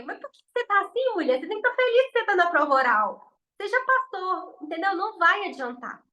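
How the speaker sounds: voz imitada mais aguda de alguém tentando animar; amigo que não entende. Retold or imitated. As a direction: imite o colega que acha que a prova é fácil. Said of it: "ele não vai entender". (imitando o colega que não entende, voz mais aguda)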